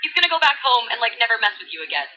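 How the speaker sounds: put-on bubbly valley girl voice; valley girl retelling scripture. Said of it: "in full Valley Girl mode".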